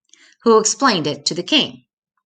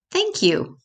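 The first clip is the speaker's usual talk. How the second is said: apprentice's thanks; 11 semitones higher than usual. A narrator's reading.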